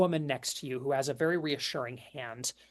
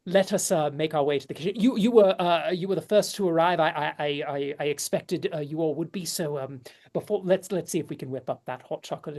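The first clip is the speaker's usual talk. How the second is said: lady's voice; 5 dB louder, faster than usual. Acted. Lady leads to kitchen.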